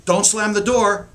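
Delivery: snapped parental order; sharper command. Shown as a demonstration. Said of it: "their brain does not register the negative".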